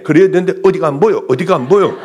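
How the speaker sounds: fast, curt mock questioning; imitating the impatient young doctor; rushed impatient doctor. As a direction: fire the questions off hurriedly. Mimics rushed doctor's banmal.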